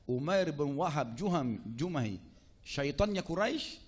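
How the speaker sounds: loud, slow, emphatic naming; emphatic callout. Retold or imitated. Umar spotting Umair at the gate of Madinah, loud emphatic callout. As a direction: call him out slowly and forcefully.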